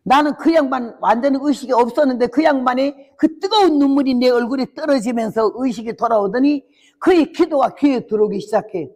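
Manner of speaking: ordinary talk, nothing marked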